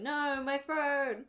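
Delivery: high, loud and slow wail; screaming rat king. Acted. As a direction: wail over the burning throne. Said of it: "the Rat King begins screaming".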